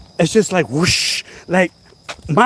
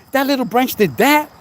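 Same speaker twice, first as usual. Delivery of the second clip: high astonished question; can't believe a little branch did that; amazed disbelief; 6 semitones higher than usual. Retold or imitated. To viewers, amazed at the fallen branch. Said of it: "I'm like".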